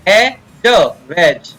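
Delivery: "वेज" with no D before the J; sounding out, silent D. Shown as a demonstration. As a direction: sound out "ए, ज" piece by piece, then blend "वेज" falling. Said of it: "डी को नहीं पढ़ेंगे, silent रहता है". ("ए, ज, वेज" जोड़कर, डी silent)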